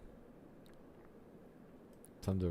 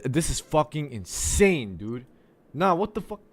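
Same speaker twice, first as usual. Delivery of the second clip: high, loud ranting that keeps climbing; furious yelling; 6 semitones higher, 7 dB louder than usual. Real, not acted. Coder screaming at Windows over permissions, furious building shout. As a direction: rage at the computer, cracking up high. Permission error rage at computer.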